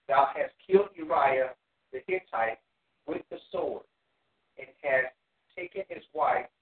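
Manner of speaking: deliberate, emphatic Bible reading; scripture reading. Acted. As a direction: read the verse out in measured, weighty phrases. Reads scripture aloud to the class.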